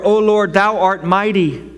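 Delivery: lofty old-fashioned prayer voice, lightly hammed; a hint of pompous thee-and-thou praying; mock King James prayer. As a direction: pray like an old Bible, half in jest. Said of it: "If your prayers are".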